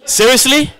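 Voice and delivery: high, loud, drawn-out sassy scoff; indignant sass. Retold or imitated. Offended husband answering his wife, loud and sassy. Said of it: "And I'm like".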